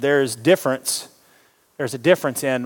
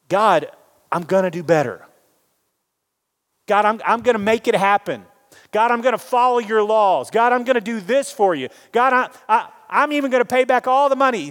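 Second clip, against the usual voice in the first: higher, keen voice piling up vows; eager promises; 5 semitones higher than usual. Retold or imitated. Pharisee-type boasting his vows to God, higher. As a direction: sound proud of what you'll do.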